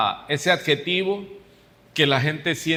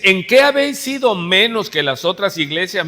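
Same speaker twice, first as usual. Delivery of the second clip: louder, pointed rhetorical question; 3 semitones higher, 5 dB louder than usual. Retold or imitated. Preacher voices Paul challenging the church, rhetorical question. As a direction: ask it forcefully, expecting no reply. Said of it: "se pregunta de una manera retórica".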